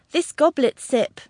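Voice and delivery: high, slow, flowery invitation; courtly old gentleman wooing; ardent suitor. A narrator's reading. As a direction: offer it with theatrical devotion. Stranger woos with flowery words.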